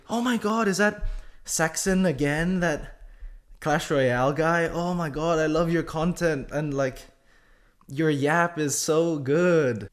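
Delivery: high, gushing fangirl voice, drawn out at the end; excited fan shrieking, then slowing on the praise; starstruck fan squeal. Retold or imitated. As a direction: gush like a starstruck fan spotting a creator. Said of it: "Turns out she's screaming".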